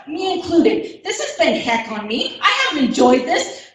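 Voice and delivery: laughing through the words; real nervous laugh while speaking at a meeting; nervous laughter. Real, not acted. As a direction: let a nervous laugh break in.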